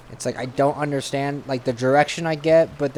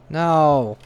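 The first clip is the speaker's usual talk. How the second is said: dismayed shout; 2 semitones higher, 5 dB louder than usual. Real, not acted. Game mishap.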